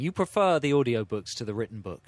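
hushed whispered question; whispering. Pretend. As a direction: whisper it like a secret.

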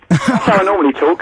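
East London Cockney chappie; broad Cockney barrow boy; Cockney accent. Acted. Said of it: "normally I'm a Cockney chappie".

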